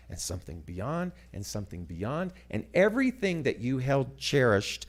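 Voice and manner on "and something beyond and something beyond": softer and lower each time; fading echo. Shown as a demonstration. Speaker to practitioners, echoing beyond ever softer: fading echo. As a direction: let each repeat fall away quietly. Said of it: "repeating phrase fading".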